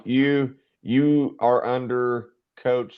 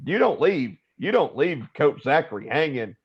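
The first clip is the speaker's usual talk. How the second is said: mild mock yell, pitched up; Coach Shannon; 4 semitones higher than usual. Second coach chides the freshman for leaving coach hanging, mock yell. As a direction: imitate a coach calling out, without real volume. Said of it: "Coach Shannon yells out".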